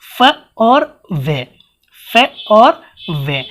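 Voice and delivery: फ and वे drawn out, very slow; teacher stretching फ and वे for the class; slow demo. Shown as a demonstration. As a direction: spell each sound out slowly. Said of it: "कौन से word होते हैं".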